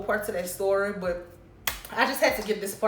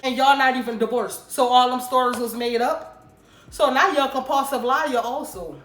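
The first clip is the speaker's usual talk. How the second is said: louder, rising indignation; indignant anger; 3 semitones higher, 6 dB louder than usual. Real, not acted. Telling viewers about his made-up stories, indignant. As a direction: call him out on the lies.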